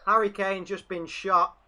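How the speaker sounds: slow, mock-serious announcement; deadpan sarcasm about the dive; mocking a diving striker; sarcastic mock alarm. Real, not acted.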